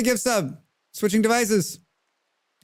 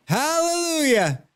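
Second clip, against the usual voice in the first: joyful hallelujah; 10 semitones higher, slower than usual. Real, not acted. Teammate revived in game.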